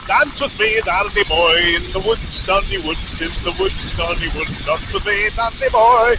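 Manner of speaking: chant-like mock Irish accent; attempted Irish accent. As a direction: repeat it in an amateur Irish lilt. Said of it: "can't do an Irish accent".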